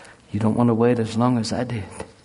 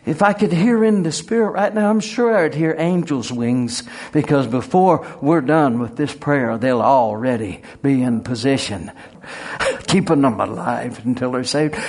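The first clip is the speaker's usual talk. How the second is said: fervent prayer. Acted. Pastor praying over the congregation's loved ones, fervent. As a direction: pray it up with growing fire.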